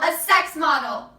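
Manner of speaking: slow, loud, bitter cry; bitter shout. Acted. Trafficked girl finishing her mother's sentence, a slow bitter shout. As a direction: spit the words out in disgust.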